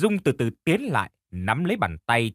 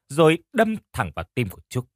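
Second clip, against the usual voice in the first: usual speaking voice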